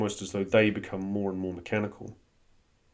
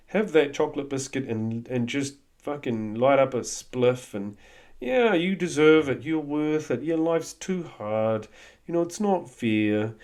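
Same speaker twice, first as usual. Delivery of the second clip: a lightly voiced coaxing inner tempter, higher; tempting inner voice; 4 semitones higher than usual. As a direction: wheedle like a little devil on the shoulder. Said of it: "your inner narcissist, which says".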